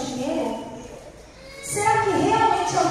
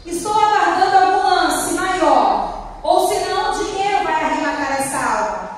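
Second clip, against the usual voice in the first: auctioneer; 3 semitones higher, 5 dB louder than usual. Acted. Auctioneer demanding higher bids.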